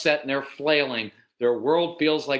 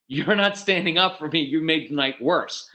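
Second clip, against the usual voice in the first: retold reproach from a fed-up wife; mildly imitating an annoyed wife; wife's mild rebuke; 3 semitones higher than usual.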